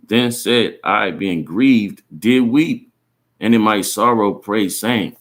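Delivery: slow, measured Bible reading; scripture reading. Real, not acted. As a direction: read the verse out deliberately, phrase by phrase. Reads scripture aloud.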